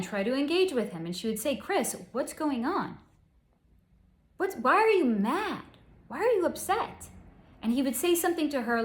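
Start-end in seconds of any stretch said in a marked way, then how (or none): 1.6-7.1 put-on pleading girlfriend. Rihanna pleading with Chris.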